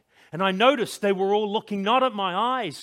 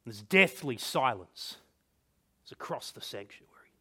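hushed narration; 8 semitones lower, 7 dB quieter than usual. A narrator's reading. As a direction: let the voice drop into stunned silence. Hush after the king's outburst.

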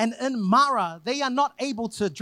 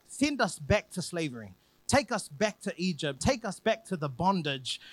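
half-hearted plea to go back; mild mock complaint; 2 semitones lower than usual. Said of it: "They are starting to say silly things like".

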